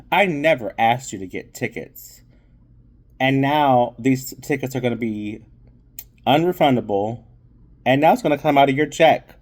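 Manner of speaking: rising into a fast, loud tirade; retold angry scolding. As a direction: build from annoyed to heated scolding. Nina scolds Millie about tickets.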